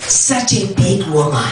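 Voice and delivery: slow, leering creep voice; creepy toothless man. Acted. Creepy stranger on Bloor Street, slow toothless-man voice. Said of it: "this creepy toothless man".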